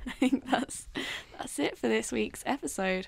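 hoarse, croaking throat; a frog in the throat; croaky voice. Real, not acted. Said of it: "Whoa, croaky voice".

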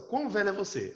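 teacher showing the odd literal phrasing; literal translation read out. Shown as a demonstration. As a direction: lift "Quão velho é você" then drop. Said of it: "Olha só".

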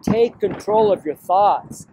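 slow, measured retelling of a command; slowly quoted divine instruction; repeating God's command. Retold or imitated. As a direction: say each word slowly and deliberately. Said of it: "I just stood there and said".

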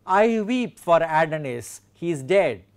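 connected reading of a verse line; verse quotation. Shown as a demonstration. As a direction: read the line through as one phrase. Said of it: "We have a good example".

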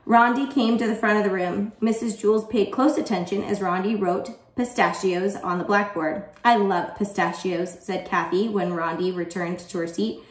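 put-on animated storytelling for children; story read-aloud. A narrator's reading. Teacher reading a favorite chapter to students, animated. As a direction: read it out clearly and expressively.

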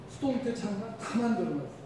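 ordinary talk, nothing marked

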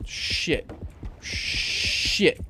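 breathy whispered swear; whispered curse. Real, not acted. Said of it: "whispered curse".

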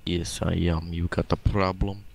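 mock Russian accent, hammed up; gruff fake Russian villain voice. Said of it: "you're using your Russian accent".

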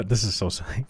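amused aside through a laugh. Real, not acted. Reader breaking off from the story, laughing. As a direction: giggle at how silly it is.

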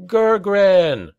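high, loud cry of a name. A narrator's reading. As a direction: cry out to a fallen comrade. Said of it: "cried Oric".

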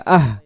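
আহ closed with a breathed h from the throat; short আহ with audible throaty h; felt in throat. Shown as a demonstration. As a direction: push the h out at the end of আহ. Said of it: "গলায় এভাবে লাগবে".

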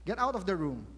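lightly voiced mayor ordering everyone out; a hint of a boss clearing the room; commanding mayor. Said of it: "suddenly he says".

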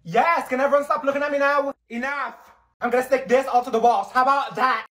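high, loud annoyed snapping; embarrassed outburst. Acted. Student snapping at classmates who keep staring at her.

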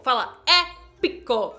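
"Fala épico" slow and loud, "épico" stretched and falling; dramatic épico. Shown as a demonstration. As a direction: savour the word "épico". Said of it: "fale as palavras com entonação".

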